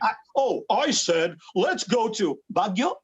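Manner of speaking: put-on lightly pushed American accent; a hint of showbiz American accent. Film character answering his American friend, lightly pushed American accent. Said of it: "they would push the American accent".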